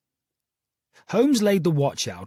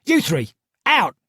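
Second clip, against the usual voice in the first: menacing order; 5 semitones higher, 4 dB louder than usual. A narrator's reading. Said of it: "She raised her stick menacingly".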